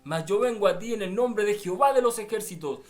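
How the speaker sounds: loud, forceful battle declaration; defiant David. Retold or imitated. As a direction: preach David's challenge with rising force. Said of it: "David lo miró y le dijo".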